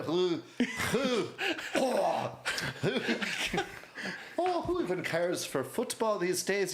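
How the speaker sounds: high, lightly Irish and giggly; Irish accent. Acted. Irishman dismissing American football to friends, high light Irish accent.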